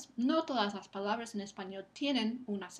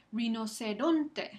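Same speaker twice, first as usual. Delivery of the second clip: slow "Rinoceronte", RON louder and stronger; stress on RON; 4 dB louder, slower than usual. Shown as a demonstration. Teacher testing students' ears, slow stress on RON in "Rinoceronte". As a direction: punch the next-to-last syllable of "Rinoceronte". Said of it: "Esa penúltima sílaba recibe el acento".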